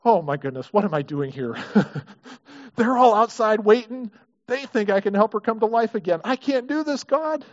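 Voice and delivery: lightly played panic before the task; mock panicked Peter. Peter anxiously admitting to God he can't do this. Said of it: "I wonder if he said".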